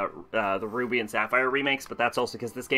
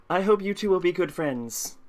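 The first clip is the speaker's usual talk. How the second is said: put-on light French accent; 4 semitones higher than usual. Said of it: "I, I'm French".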